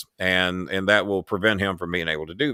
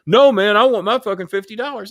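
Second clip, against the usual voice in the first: higher, louder imitation of a stubborn demand; mock angry whine; 10 semitones higher, 5 dB louder than usual. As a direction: hammer it like a stubborn kid wanting money. Retold caller insisting again.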